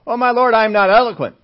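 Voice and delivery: high, loud appeal to the Lord; pleading protest. Acted. Moses protesting his calling to the Lord, pleading loudly.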